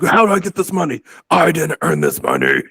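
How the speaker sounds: high, confused mock voice; lightly voiced puzzled John; imitating John. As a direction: play the baffled friend who finds money. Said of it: "He'd be like".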